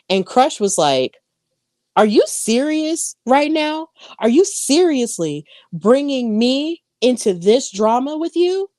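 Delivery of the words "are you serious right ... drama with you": higher-pitched mock outrage at a friend; incredulous retort. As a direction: retell her disbelief, pitched up. Retold angry friend confronts Aussie.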